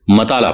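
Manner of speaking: مطالعہ said as mataala, ain deleted; مطالعہ with zabar on meem and no ain; ain dropped. Shown as a demonstration. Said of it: "یعنی آئین کو حذف کر کے پڑھتا ہے".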